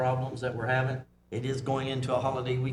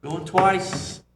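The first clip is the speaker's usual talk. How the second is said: louder playful auctioneer call; 4 semitones higher, 5 dB louder than usual. Acted. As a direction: bang it out like an auctioneer. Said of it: "Sound like an auctioneer now".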